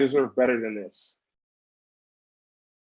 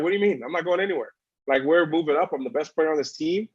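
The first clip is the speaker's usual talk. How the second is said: incredulous; 4 semitones higher than usual. Retold or imitated. Incredulous inner reply to the newscaster.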